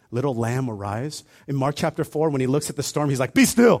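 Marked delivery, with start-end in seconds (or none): 0.1-1.2 gentle word. Retold or imitated. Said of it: "he speaks a gentle word". 3.3-3.8 higher, louder command; Jesus commanding the storm, forceful. Retold or imitated. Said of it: "there's an exclamation mark".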